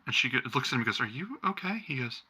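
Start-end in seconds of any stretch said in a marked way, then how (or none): 1.0-1.8 concerned soft question. Acted. Wife asks husband with concern.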